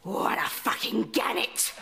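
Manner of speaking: a sly whisper the guests must not hear; whispered aside. Acted. Nan whispering an insult about her daughter, hushed. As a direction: mutter it under your breath, unvoiced.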